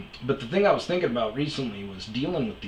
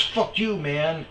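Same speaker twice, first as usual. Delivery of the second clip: mock angry yell; 7 semitones higher, slower than usual. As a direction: bark it like the angry stranger. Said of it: "and he goes".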